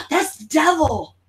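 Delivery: "Devil" drawn out slowly, in dawning surprise; sudden realization. Retold or imitated. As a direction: say "That's Devil" slowly, like it just clicked.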